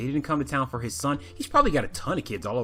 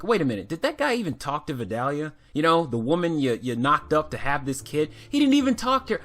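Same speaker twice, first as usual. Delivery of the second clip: surprised; 4 semitones higher, 4 dB louder than usual. Retold or imitated. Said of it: "I was like".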